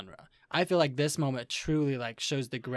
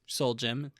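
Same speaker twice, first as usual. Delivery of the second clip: ordinary delivery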